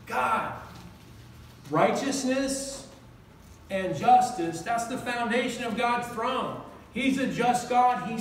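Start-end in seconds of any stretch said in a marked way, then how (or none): 1.7-4.6 "Righteousness" drawn out slowly, then "justice"; slow, heavy key words; slow emphasis. Shown as a demonstration. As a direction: spell out each word for weight. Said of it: "I'm gonna read it slow for you".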